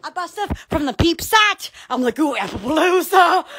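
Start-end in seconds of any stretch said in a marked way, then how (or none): 2.2-3.5 excited squeal. Retold or imitated. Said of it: "Because I get so excited".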